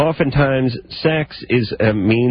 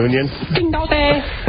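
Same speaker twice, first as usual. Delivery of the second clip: mock surprise. Mocking the name.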